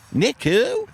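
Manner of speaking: high, sharp Nick who; incredulous. Acted. Stunned voice questioning the singer's name, high. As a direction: demand it in disbelief.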